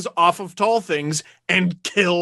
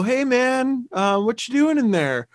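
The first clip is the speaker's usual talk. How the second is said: imitating a careful, easygoing question; calm, casual approach; 5 semitones higher than usual. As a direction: act out calmly approaching a trespasser. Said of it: "very calmly walk up to the guy".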